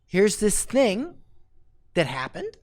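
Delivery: slow, easy storyteller tone; just share what happened; casual storytelling. Shown as a demonstration. Coach shows the gentle story approach, slow and easy. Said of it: "you say".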